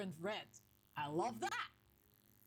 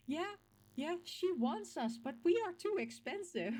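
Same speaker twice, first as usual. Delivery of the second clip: game on the shelf; 7 semitones higher, 3 dB louder than usual. Pretend. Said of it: "it was there like".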